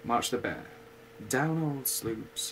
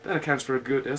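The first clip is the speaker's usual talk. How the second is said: gloomy; 3 semitones higher, 7 dB louder, faster than usual. Acted. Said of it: "said Eeyore gloomily".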